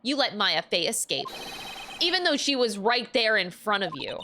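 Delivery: scornful villainess. Acted. Villain berating her failed accomplice with cold scorn. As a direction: sneer down at a failed underling.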